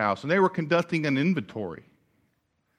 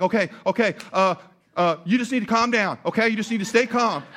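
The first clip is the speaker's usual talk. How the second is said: higher, mildly flustered mock panic; imitated panic; 5 semitones higher, 3 dB louder than usual. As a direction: act out a friend trying to calm someone while panicking. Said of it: "he starts panicking".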